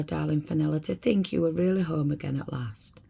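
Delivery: put-on a mother breathing relief over her child; tender mother. Mother greets lost daughter.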